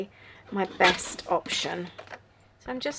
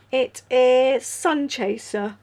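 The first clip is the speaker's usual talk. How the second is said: yawning; 3 semitones higher, 4 dB louder, slower than usual. Real, not acted. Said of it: "I'm yawning".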